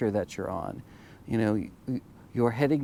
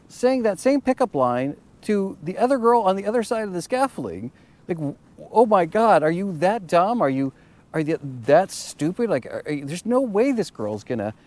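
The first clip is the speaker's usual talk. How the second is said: exasperated disbelief; 7 semitones higher, 4 dB louder than usual. Retold or imitated. Eye-rolling at pickup line.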